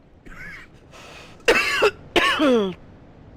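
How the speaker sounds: big open-mouthed yawn. Real, not acted. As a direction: let out a long yawn. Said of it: "Apologize for the yawn".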